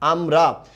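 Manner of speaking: আমরা as two held beats, আম, রা; syllable by syllable. Shown as a demonstration. Teacher asking how many stops, splitting আমরা. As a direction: stretch and part the syllables of আমরা. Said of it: "এখানে আমরা কয়বার থামছি".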